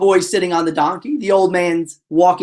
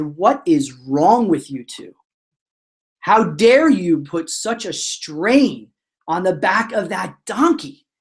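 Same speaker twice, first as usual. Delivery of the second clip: slow, emphatic acted outrage; measured, indignant telling-off; mock furious; slower than usual. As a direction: scold slowly, leaning on each word. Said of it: "and they are furious".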